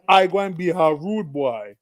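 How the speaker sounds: put-on Jamaican accent. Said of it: "that's a terrible Jamaican accent".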